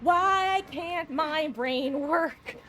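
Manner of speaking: loud, slowed exasperation; real frustrated outcry; flustered exclaim. Real, not acted. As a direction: groan it out loud. Panicked loud self-scolding.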